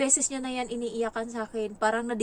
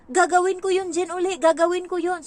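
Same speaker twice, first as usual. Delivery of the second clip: loud, high, defiant vow; determined kid; 8 semitones higher, 9 dB louder than usual. Retold or imitated. Nanny voices the boy vowing to fight back, loud and defiant. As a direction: declare it like a stubborn boy. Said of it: "Sabi niya".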